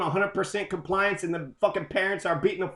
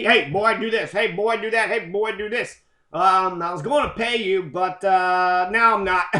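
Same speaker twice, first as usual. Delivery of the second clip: bossy parent. Retold or imitated.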